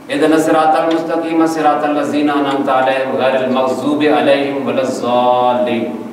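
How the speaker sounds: slow recitation with light Urdu consonants in الصراط and الذین; Pakistani mispronunciation. Shown as a demonstration. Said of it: "یہ تلفظ ہے ہمارے یہاں".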